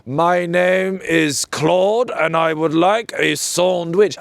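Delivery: slow, exaggerated put-on English accent; a French pupil overdoing an English accent; mock English accent. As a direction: drawl it in a caricature English accent. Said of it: "speak English with an English accent".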